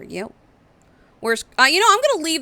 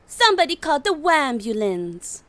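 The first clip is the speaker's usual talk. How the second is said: underwater; 6 semitones higher, 4 dB louder than usual. Retold or imitated. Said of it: "you're drowning".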